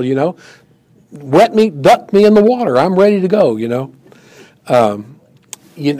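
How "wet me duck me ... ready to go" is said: much higher, louder, all in; gung-ho Peter begging to be dunked; over-eager Peter. Acted. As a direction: throw yourself in like eager Peter. Peter eagerly offers his whole self.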